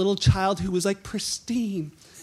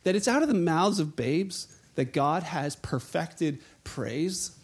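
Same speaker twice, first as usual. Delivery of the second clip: lower, softer, knowing reply; gentle rebuke; 4 semitones lower, 4 dB quieter than usual. Retold or imitated. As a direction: ease it in quietly, like a wink. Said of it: "he's like".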